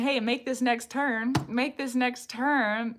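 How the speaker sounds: slow, lightly voiced navigation prompt; map app voice. Reader lightly imitating a map app giving turns. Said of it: "if they're saying".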